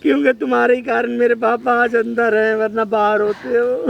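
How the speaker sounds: weepy, dragging complaint; acted crying. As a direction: wail the blame through tears. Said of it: "तो भाई रो क्यों रहे हो".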